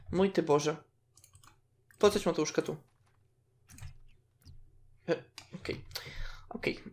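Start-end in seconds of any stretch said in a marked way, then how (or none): 5.1-6.8 breathy whispered okay. Real, not acted. Player whispers okay to herself, softly. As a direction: whisper it so nobody wakes.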